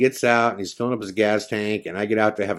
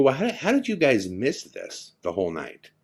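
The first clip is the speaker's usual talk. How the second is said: higher-pitched incredulous question; retold exasperation; baffled disbelief; 5 semitones higher than usual. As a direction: challenge your friends, stumbling into the question. Baffled challenge to his lost friends.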